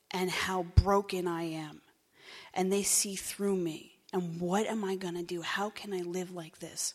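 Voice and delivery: slow, hushed, frightened thoughts; terrified inner voice. Retold or imitated. Newcomer in a meeting, silently panicking, slow and hushed. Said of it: "I'm absolutely terrified".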